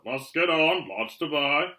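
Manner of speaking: loud, hurried call over the din. A narrator's reading. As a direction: make yourself heard across a busy room. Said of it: "make himself heard over the bell".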